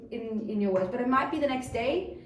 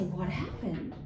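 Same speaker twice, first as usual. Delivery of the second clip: lower, softer inquiry; gentle concern; 3 semitones lower, 5 dB quieter, much slower than usual. Acted. Parent asking the upset child, gently concerned. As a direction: invite them to tell it, quietly.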